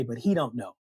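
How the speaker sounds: hushed, whispery secret; confiding punchline. Acted. Mom lets son in on a secret, confiding. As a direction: drop to a whisper to share the secret.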